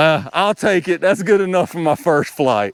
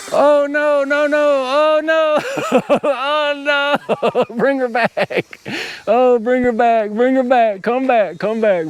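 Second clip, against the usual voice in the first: much higher, panicky cries of oh no with nervous laughs; yelping in real panic as the drone drifts off; real pilot panic; 11 semitones higher, slower than usual. Real, not acted. Drone pilot calling his drifting drone back, high panicked pleading. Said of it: "I'm panicking".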